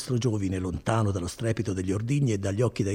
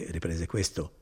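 plain reading voice

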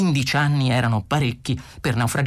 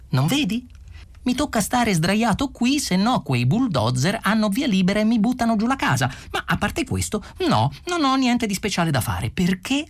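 higher, a touch of mock patience; a hint of Arthur's weary sarcasm, higher; lightly voiced sarcastic Arthur; 7 semitones higher than usual.

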